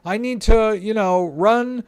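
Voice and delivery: hammed-up panic, pitch way up as if the world is ending; panic mode. A scared user imitated for viewers, frantic high mock panic. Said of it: "they go into panic mode".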